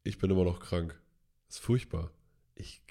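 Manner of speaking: stuffy, congested voice; blocked nose. Real, not acted. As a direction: speak through a blocked nose. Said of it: "ihr hört es immer noch".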